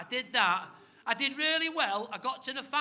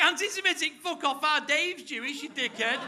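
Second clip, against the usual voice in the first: indignant retort; 5 semitones higher, 4 dB louder than usual. Retold or imitated. His retort to Muriel.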